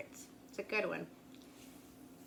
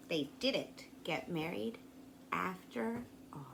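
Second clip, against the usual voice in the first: soft ending; 6 semitones lower, 7 dB quieter than usual. A narrator's reading.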